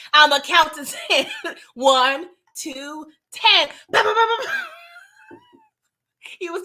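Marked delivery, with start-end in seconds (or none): 0.1-3.7 laughing through the countdown quote; laughing movie quote. Retold or imitated. Quoting the Home Alone gangster movie countdown, laughing. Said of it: "quoting Home Alone". 3.9-5.4 shouted, rising bah-bah gunfire; spray imaginary bullets; mock gunfire. Imitating the movie's gunfire with shouted bursts.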